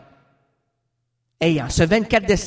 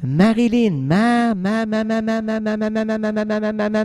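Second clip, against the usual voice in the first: seance medium. Acted. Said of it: "le médium qui rentre en transe".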